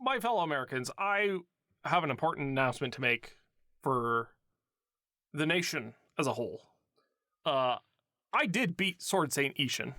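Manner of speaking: a light presidential address; solemn mock state address; Obama impression. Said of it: "Obama voiceovers to you, Adam".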